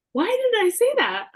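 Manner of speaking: mock-horrified self-reproach out loud; exasperated self-question. Blurting, then questioning herself.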